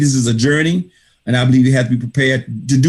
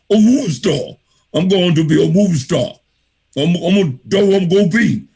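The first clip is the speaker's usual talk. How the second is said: higher, insistent mock Austrian accent; horrible accent; 5 semitones higher than usual. Speaker mimics Arnold insisting to doubters, thick Austrian accent. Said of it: "got a horrible accent".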